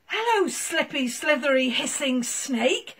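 a cold little dog talking; puppy Marshall. Acted. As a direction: Marshall shivering in the snow. Marshall talks to snake.

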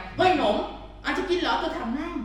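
imitating an owner. Trainer imitating an owner tempting the dog, high and eager. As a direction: play the eager owner waving a snack. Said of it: "เขาเอ่ยมาก่อนไง".

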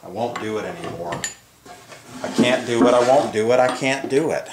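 normal talking voice

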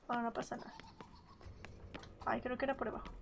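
soft unvoiced whisper. Real, not acted. Player hiding from the killer, whispering. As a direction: whisper so the killer can't hear.

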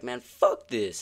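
mock exasperation, slow and punchy; retold rage quit. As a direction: imitate a gamer fed up and quitting. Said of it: "and then fucking rage quit".

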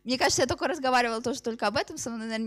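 usual speaking voice

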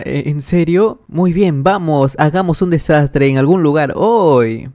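rising thrill at the idea of mischief; a kid egging his friend on, excited. Acted. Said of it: "Él se emociona".

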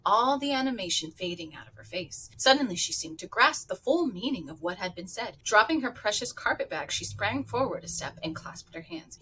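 lively read-aloud with character voices; audiobook-style storytelling; story narration. A narrator's reading. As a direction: read the novel to listeners, voicing each figure. Reads novel aloud with voices.

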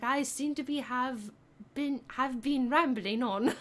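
mock-proper British accent; playful British self-commentary. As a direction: put on a prim British accent. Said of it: "Try your British accent for one minute straight".

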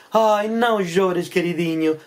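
very slow cooing to a pet; lightly acted doting owner; tender consoling. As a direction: soothe a crying darling, stretching the words. Lady consoles crying pet crocodile.

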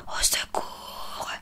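long drawn-out whispered plea; slow, mock-desperate whispered call; whispered cry for help. A narrator's reading. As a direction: stretch out a whispered cry for rescue. Sophie cries for help, chased.

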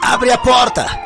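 bang on the door and demand it opens; police officers at the door, shouting orders. Acted.

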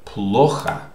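Плохо said carefully on its own, first syllable stressed; teacher's careful Плохо, final O as A; pronunciation model. Shown as a demonstration. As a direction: model Плохо clearly, "PLO-ha". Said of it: "how do you pronounce this?".

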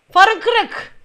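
high, loud accusation; triumphant shout. Pretend. Officer catching a broken headlight, triumphant shout. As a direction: call out the fault loudly. Officer announces car fault.

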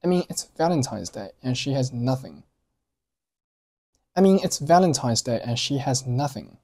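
"nothing" given weight at the end, "and" reduced; stress on nothing. Shown as a demonstration. Teacher modelling the Valentine's line, stressed "nothing". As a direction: land firmly on "nothing" after a weak "and". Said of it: "下一行nothing做重读".

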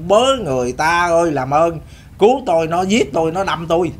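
mock cry for help. The second pig on the bridge cries out like a person, mock pleading. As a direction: plead for help as the stabbed pig, a touch of panic. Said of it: "nó kêu".

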